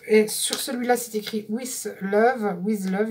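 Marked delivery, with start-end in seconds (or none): 1.5-2.6 slow English with a French accent. Real, not acted. Vlogger reading washi tape text, French-accented English. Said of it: "excusez-moi pour mon accent anglais". 2.6-3.1 English spoken with a French accent. Real, not acted. Vlogger repeating the tape's slogan, French-accented English. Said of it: "excusez-moi pour mon accent anglais".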